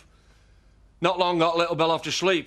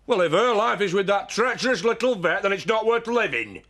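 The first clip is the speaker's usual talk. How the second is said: raised, higher-pitched angry retort; angry shouting; 5 semitones higher than usual. Acted. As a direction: argue back with rising anger. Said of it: "No point in shouting at her".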